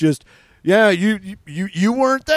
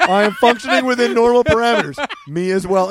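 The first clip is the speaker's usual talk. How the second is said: robot voice; 4 semitones higher than usual. Pretend. Acting out robots making small talk.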